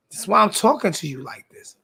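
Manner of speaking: spelling it out for a troll; each word laid out deliberately; patient but condescending; slow and pointed. Real, not acted.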